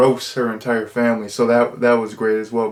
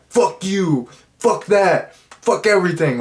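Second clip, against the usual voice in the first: high mock snarl of a rebel; defiant rebel; 7 semitones higher than usual. Rebel teen mocking all authority, a high mock snarl. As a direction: toss it off like a kid who hates authority. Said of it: "he's just like".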